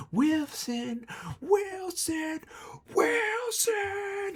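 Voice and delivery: screaming in a very high creature voice; piercing high monster cry, climbing in pitch; Wilson. Acted. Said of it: "screams at the top of its lungs".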